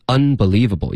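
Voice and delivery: "unbelievable" begun cleanly, not linked to the word before; unlinked. Shown as a demonstration. Teacher showing learners the emphatic word, unlinked. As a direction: separate "unbelievable" from what precedes it. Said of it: "也没有连读，因为想要强调真受不了".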